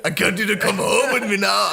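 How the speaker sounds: mock Scottish accent. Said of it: "I can't even do it".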